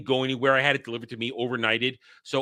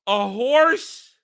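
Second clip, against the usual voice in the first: disgusted; 9 semitones higher, 5 dB louder, much slower than usual. Real, not acted. Disgusted reaction.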